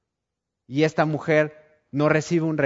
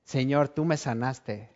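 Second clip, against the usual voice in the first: slow, softer grateful words; tender thanks; 5 dB quieter than usual. Acted. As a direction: say it slowly, overwhelmed with gratitude. Healed woman thanks Jesus.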